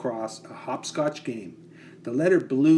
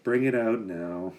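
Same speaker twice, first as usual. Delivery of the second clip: slow and reluctant; 3 semitones lower than usual. Acted. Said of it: "said Peter slowly".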